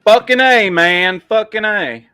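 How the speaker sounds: shouted Fucking A, hoger en luider; 1 enthusiastic shout. Real, not acted. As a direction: roep het uit, vol overtuiging.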